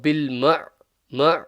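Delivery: bil ma closed by an ayn from the middle of the throat. Shown as a demonstration. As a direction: let the ayn sound at the end of ma. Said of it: "the ayn is from the middle".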